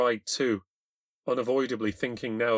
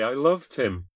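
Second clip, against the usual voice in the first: loud, high tearful confession; girl crying over her lover; grieving; 4 semitones higher, 6 dB louder, slower than usual. A narrator's reading. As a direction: say it through grief.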